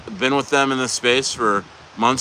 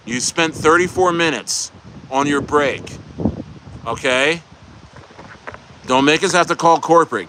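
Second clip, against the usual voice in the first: bossy manager; 3 semitones higher than usual. Retold or imitated. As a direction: scold a worker back to the drive-through window. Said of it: "they're like".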